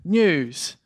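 put-on high, impassioned preaching to a young protégé; fired-up encouragement. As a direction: build him up with rousing conviction. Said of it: "Did that get you fired up?".

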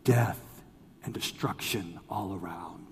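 low, soft, matter-of-fact doom; coolly understated pronouncement; calm and cool. Retold or imitated. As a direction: imitate an unruffled deadpan, dropping away quietly. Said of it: "she said so calmly and coolly".

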